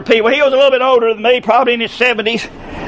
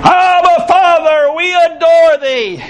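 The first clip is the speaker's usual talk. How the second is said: hymn recitation. Acted. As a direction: recite a hymn from the pulpit, line by line. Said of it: "It goes like this".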